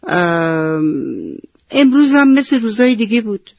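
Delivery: put-on a grumpy kid brushing off his mum's greeting; grumpy reply. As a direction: snap back like a moody child. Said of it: "با بد اخلاقی گفت".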